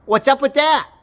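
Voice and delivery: loud, high, indignant question; high exasperated yell at the doctor; indignant shout. Retold or imitated. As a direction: shout it out in outrage.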